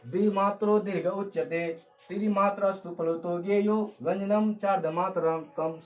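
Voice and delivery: measured Sanskrit shloka recitation, firm opening; verse recitation. Shown as a demonstration. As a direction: recite the verse steadily for the class to repeat. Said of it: "दोहराते हैं". (संस्कृत श्लोक का सधा हुआ पाठ)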